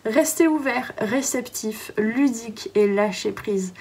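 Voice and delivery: talking through hiccups; hiccuping between words. Real, not acted. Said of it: "Pardon, j'ai le hoquet".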